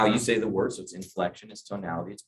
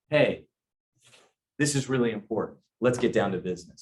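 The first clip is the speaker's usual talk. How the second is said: serious turn. Retold or imitated. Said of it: "we're getting to a serious point".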